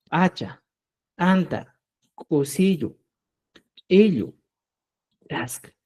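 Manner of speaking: "Hacha, anta, cosillo, ello, tasca" with a popped glottal first consonant; consonantes glotalizadas. Shown as a demonstration. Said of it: "las glotalizadas que nos da el ministerio". ("Hacha, anta, cosillo, ello, tasca" con inicial glotalizada)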